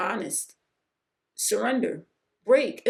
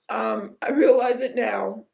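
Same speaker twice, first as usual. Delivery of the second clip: tearful; 5 dB louder than usual. Real, not acted. Tearing up mid-testimony.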